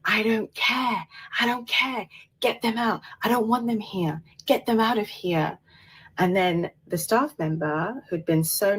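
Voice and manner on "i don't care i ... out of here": high-pitched mock shout at ordinary volume; raised-pitch retelling of a furious demand; retold shouting. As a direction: imitate an angry man shouting, without real volume. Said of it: "And then I hear him shouting".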